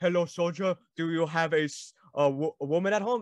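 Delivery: put-on German-accented voice. Recalling the listener's bit greeting a soldier, in a German accent. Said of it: "with this German accent".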